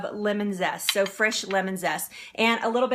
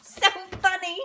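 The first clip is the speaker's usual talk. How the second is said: laughing; 8 semitones higher than usual. Real, not acted. Laughing at blender failure.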